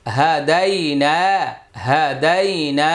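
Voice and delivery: হাদাইনা with দাই and না drawn out; measured recitation of হাদাইনা, long final না; one-alif elongation. Shown as a demonstration. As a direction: stretch the long vowels in হাদাইনা by one beat. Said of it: "এটা এক আলিফ টান".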